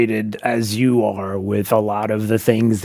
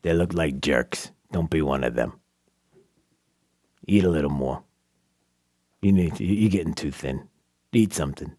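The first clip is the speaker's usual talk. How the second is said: mom's voice; 8 semitones lower, 5 dB quieter than usual. Retold or imitated. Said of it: "that's what my mom would say".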